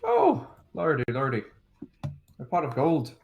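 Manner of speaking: put-on Irish leprechaun accent; lilting Irish brogue. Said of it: "trying to do an Irish accent".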